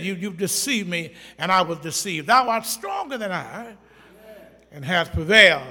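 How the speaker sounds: loud, full-force preaching. Acted. Preacher thundering the story to his congregation, full force.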